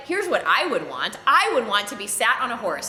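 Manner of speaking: a hint of a puffed-up schemer dreaming aloud; Haman's boast. Haman telling the king how to honor a man, lightly mock grand. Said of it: "And Haman's like".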